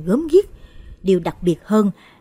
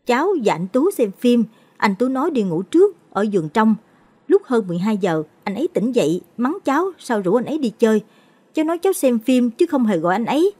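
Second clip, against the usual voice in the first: put-on slightly higher shaky child telling; frightened boy; 4 semitones higher than usual. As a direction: recount it like a scared boy. Boy voices retelling.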